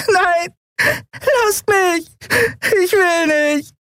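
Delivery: tiny, very high, terrified voice; small creature crying in fear; fearful squeak. A narrator's reading. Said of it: "Das angsterfüllte Piepsen".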